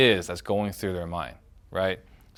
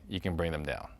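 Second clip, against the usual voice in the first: softer and lower, calming it; softer, brought down; 5 semitones lower, 11 dB quieter than usual. Shown as a demonstration. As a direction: let the voice settle down. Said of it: "match them emotionally".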